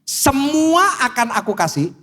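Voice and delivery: tempting devil. Acted. Devil offering Jesus the world's riches, lightly acted slow temptation. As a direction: draw out a grand, tempting promise. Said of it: "Terus iblisnya bilang gini".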